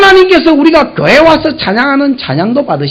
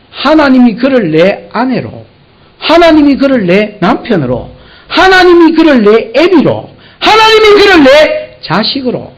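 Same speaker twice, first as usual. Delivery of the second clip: building fervour; 4 semitones higher than usual. Acted. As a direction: build each 하나님이 line toward a cry. Rising preached list.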